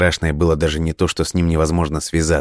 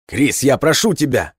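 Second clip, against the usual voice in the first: high-pitched desperate plea; breaking into a cry; 9 semitones higher than usual. A narrator's reading. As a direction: beg him, pitch shooting up. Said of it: "Ханс сорвался на крик".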